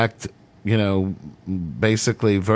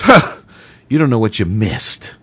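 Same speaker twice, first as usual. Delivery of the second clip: scoffing huh; 3 dB louder than usual. Retold or imitated. Director mocks, storms out.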